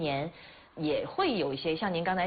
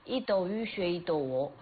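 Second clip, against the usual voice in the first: echoing the Changsha pronunciation; imitated Hunan dialect. Shown as a demonstration. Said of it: "用湖南话怎么读啊". (学着用湖南话念)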